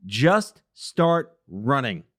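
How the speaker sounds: slow, half-hearted Southern accent imitation; a weak try at a slow Southern Forrest Gump line; Forrest Gump Southern drawl. Host describing guest's running, mock Southern accent. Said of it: "I can't do the Forrest Gump Southern dialect too well".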